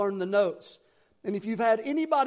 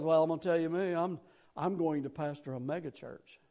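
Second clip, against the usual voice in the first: tag; 4 semitones lower, 4 dB quieter than usual. Retold or imitated. Imitates cocky classmate.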